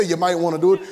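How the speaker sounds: mock optional advice; lightly mocked wishy-washy advisor; tentative suggestion. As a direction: suggest it loosely, without commitment. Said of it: "No, he don't say".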